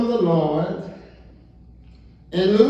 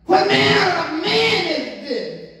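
high, astonished questions; amazed disciples; 5 semitones higher than usual. Retold or imitated. Amazed disciples after storm stops.

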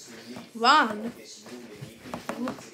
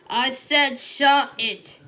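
slow, firm "I said shut it" with weight on "shut"; stern order; 3 semitones lower, slower than usual. Pretend. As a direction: lean hard on "shut", slowly. Repeats the order, harder.

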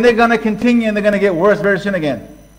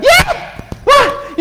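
much higher mock tough-guy yell; cocky challenge. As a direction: bark it like a weakling sure his mates back him. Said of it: "he had the biggest mouth".

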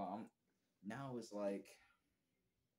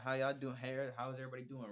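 loud, high, cheery hello to the room; upbeat greeting; 4 semitones higher, 7 dB louder than usual. Retold or imitated. Country singer walking in, greeting the staff brightly. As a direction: greet everyone like a hyped-up customer.

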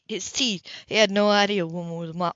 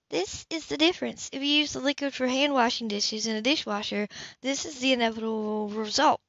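lightly voiced Anna; 3 semitones higher, 4 dB quieter than usual. Female character voice, higher.

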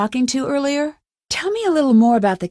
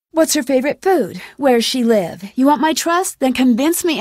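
challenging interrogation; 3 semitones higher than usual. Acted. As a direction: fire questions to test a suspected liar. Interrogates Alec about his sister.

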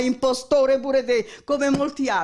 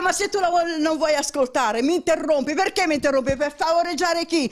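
raised voice, high and heated; angry; 5 semitones higher than usual. Real, not acted. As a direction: hurl the accusations in a rising fury. Heated accusation in a quarrel.

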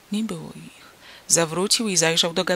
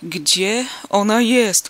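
louder, very slow, strangled shout; choked cry; 3 semitones higher, 7 dB louder, much slower than usual. A narrator's reading. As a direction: force the cry through a tight throat. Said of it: "krzyknął zdławionym głosem". (zdławiony krzyk)

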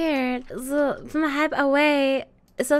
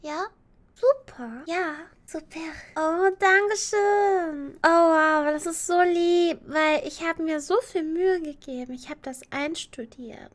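cute anime streamer; 4 semitones higher than usual. Acted. Sweet thanks to chat.

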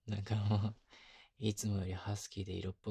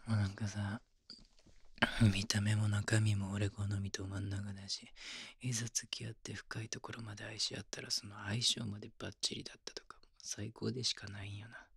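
intimate whisper. Acted. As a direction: whisper it close, like only she should hear.

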